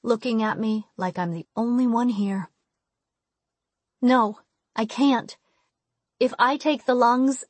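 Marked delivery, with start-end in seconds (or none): 4.0-7.4 distressed. Acted. Arguing, upset.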